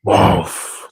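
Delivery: breathy animal "woof"; imitated deer noise. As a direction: huff out a voiceless woof. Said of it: "Deer making a loud, loud noise".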